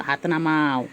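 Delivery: a touch of a stern mother; mock stern. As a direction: put the hand down, half-serious parent. Telling baby off for hitting.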